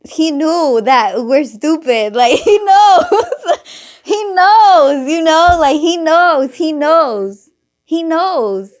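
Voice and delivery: high and loud, laughing almost to tears; laughing hard. Real, not acted. Telling friends the priest knew they were stupid, laughing hard. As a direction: crack up as you repeat it.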